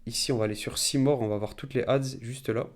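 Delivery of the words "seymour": English words in a French accent; real French-accented English; bad English accent. Real, not acted. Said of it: "Désolé pour mon accent anglais".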